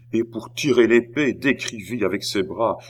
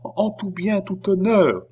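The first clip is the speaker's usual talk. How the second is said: high-pitched, anxious echo; murmured agreement; 11 semitones higher than usual. A narrator's reading. Oliva confirms all was honourable, murmuring. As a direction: echo him in a much higher voice. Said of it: "murmura Oliva".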